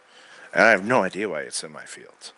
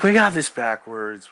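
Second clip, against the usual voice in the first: first take said out loud and firm; louder take; 6 dB louder than usual. Retold or imitated. Talking to a friend about a girl, said loud and insistent. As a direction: say it out loud, pressing the word got.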